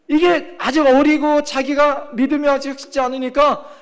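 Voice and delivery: usual speaking voice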